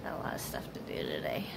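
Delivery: whispered aside about chores; whispering. Real, not acted. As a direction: drop to a confiding whisper.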